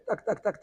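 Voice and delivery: high laughing tac tac tac; knocking sound. Retold or imitated. Rabbi imitating the Baal Shem Tov's knock, high and laughing. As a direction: play the knock on the window with a laugh.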